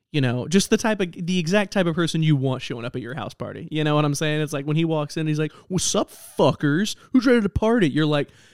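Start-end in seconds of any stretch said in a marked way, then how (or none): 5.7-7.9 mock rude, aggressive guy voice, pitched up. Retelling how an unwelcome guy walked into a house party, imitating an aggressive party guest. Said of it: "super aggressive and mean to everybody".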